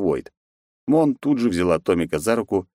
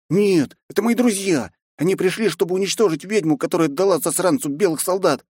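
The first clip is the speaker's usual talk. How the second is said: put-on boy reassuring his uncle; a boy defending his new friends, high-pitched; eager boy; 11 semitones higher than usual. A narrator's reading. Tomik explains to his uncle.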